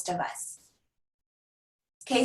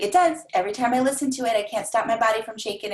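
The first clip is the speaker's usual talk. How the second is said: excited client; faster than usual. Retold or imitated. Happy client describing her song.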